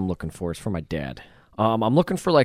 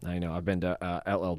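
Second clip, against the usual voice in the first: hushed whisper; 5 semitones lower, 10 dB quieter than usual. Real, not acted. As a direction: drop to a whisper. Whispered aside.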